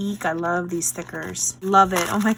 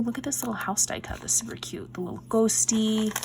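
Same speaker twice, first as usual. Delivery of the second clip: whisper; 5 dB quieter, faster than usual. Real, not acted. Excited whisper over craft goodies.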